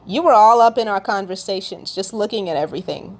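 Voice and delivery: amused, chuckling through the words; half-laughing at how much God knew; a light amused laugh on the line; laughing while quoting. Retold or imitated. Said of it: "I actually had to laugh because I was like".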